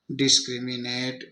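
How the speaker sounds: "डिस्क्रिमिनेट" measured out as "डिस-क्रि-मि-नेट"; syllable by syllable. Shown as a demonstration. Teacher reading the long word in pieces, "डिस-क्रि-मि-नेट" syllable by syllable. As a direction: give each chunk of "डिस्क्रिमिनेट" its own beat. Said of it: "इसका ये उच्चारण हो गया".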